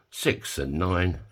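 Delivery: slow drawn-out bingo call; bingo caller. Acted. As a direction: call the numbers like bingo night. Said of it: "done a bit of, uh, bingo calling".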